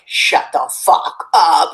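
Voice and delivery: breathy stunned whisper; hushed disbelief, slow; disbelieving whisper. Retold or imitated. She hears she can paint her face, stunned hushed whisper. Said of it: "And I was like".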